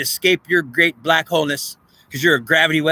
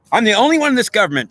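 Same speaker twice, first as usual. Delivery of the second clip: Trump's voice; 6 semitones higher, 4 dB louder than usual. Retold or imitated. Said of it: "Trump says".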